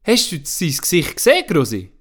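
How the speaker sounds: put-on girl excitedly asks her granny; Anna asking. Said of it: "fragt sie".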